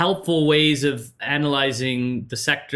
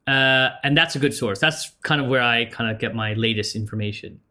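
talking through a mouthful of popcorn; chewing popcorn between words; munching popcorn; 3 semitones lower than usual. Real, not acted. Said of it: "Sorry, I've been eating popcorn".

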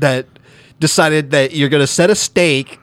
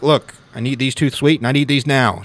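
lightly voiced Mid-Atlantic movie tough; Mid-Atlantic old movie accent. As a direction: put on a hint of old-timey Mid-Atlantic demand. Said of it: "You're doing it".

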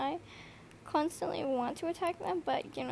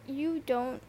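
loud, slow, drawn-out exasperation; louder, slowed down, brother said with mock despair; exasperated outburst; 10 dB louder, much slower than usual. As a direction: lay it on thick: you don't get it. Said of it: "and I'm like".

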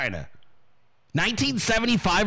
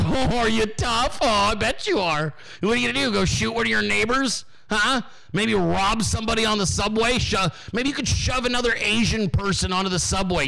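slightly raised, teasing mock admiration; mocking condescension; 4 semitones higher than usual. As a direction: needle a so-called tough guy. Mock-cooing at supposed tough guy.

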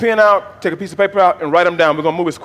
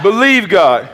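call-and-response lead; 2 semitones higher, 4 dB louder, slower than usual. Shown as a demonstration. Leads congregation in call-and-response.

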